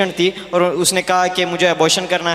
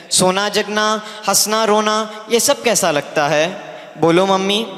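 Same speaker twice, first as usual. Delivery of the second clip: measured, rhythmic Urdu verse recital; poem recitation. Acted. Unborn daughter phones her mother from heaven, poem recitation. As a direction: recite it line by line in cadence, with lifted openings and falling closes.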